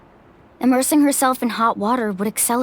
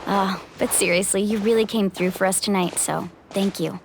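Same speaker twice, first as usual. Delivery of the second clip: sincere thanks; 5 semitones lower, 4 dB quieter than usual. Acted. Leader thanking the Traveler for coming through, sincerely. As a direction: drop the joke and mean it.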